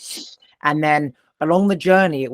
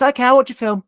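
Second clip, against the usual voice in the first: higher, louder, mock-meek "okay"; meek compliance; 8 semitones higher, 4 dB louder, faster than usual. Man retelling how he gave in to her, mock meek agreement. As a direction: play along like a scolded kid, high and bright.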